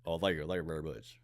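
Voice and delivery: low, soft murmured thank-you in impersonation of a famous singer. Acted. Podcaster answering friend's request for an impression, impersonation of a famous singer. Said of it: "give me the best impression".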